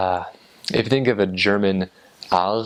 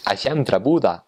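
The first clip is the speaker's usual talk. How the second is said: Northern Norwegian demo; 3 semitones higher than usual. Shown as a demonstration. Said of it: "it's a very nasally, somewhat Asian sounding".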